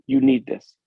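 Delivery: hushed whisper from a stranger; whispered quote. Retold or imitated. A stranger at the car window whispering to the officer. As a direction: breathe it like a secret gift. A stranger hands over a gift.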